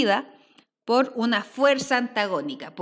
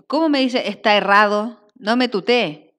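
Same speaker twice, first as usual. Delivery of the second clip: customer line; 7 dB louder than usual. Acted. Teacher voices customer in script.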